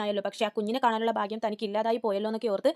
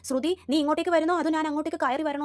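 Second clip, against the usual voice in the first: a raised mock scolding, higher pitch; retold shouting; 5 semitones higher than usual. Aunt calling her daughter-in-law out, mock angry yell. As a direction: act out the aunt's uproar at a moderate volume. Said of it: "ഭയങ്കര ഒച്ചപ്പാടാണ്".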